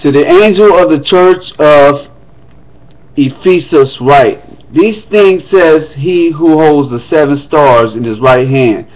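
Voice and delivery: formal reading of Revelation; scripture reading. Acted. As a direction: read the letter aloud to the congregation. Reads Revelation aloud.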